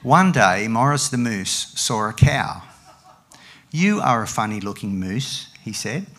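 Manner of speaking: lively, measured picture-book reading; story reading to a child. Acted. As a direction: read it out for a listening child. Reads picture book to Patrick.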